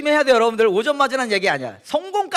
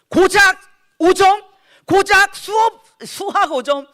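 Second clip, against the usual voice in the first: emphatic preaching; 10 semitones higher, 7 dB louder, slower than usual. Real, not acted.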